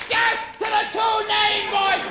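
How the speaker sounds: high mock war cry; mock scream. Mob running out at the intruder, high mock scream.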